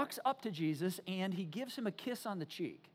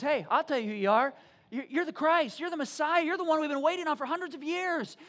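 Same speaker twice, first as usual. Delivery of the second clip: loud, raised, fervent proclamation; bold declaration; 4 semitones higher, 6 dB louder than usual. Acted. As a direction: build from confident to emphatic, voice lifting. Acted Peter's bold declaration.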